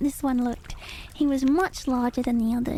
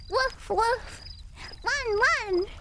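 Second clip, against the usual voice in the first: dog barking; 8 semitones higher, much slower than usual. A narrator's reading. Hungry dog chasing ducks.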